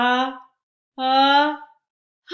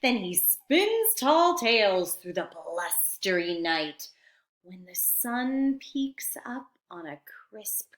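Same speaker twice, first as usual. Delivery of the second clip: put-on reading to children. Teacher reading a story to her class, lively then hushed. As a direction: read it like a bedtime picture book. Teacher reads picture book aloud.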